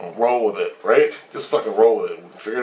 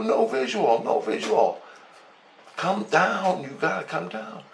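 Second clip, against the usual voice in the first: alien voice; 9 semitones higher than usual. Retold or imitated. Speaker echoing alien pitch.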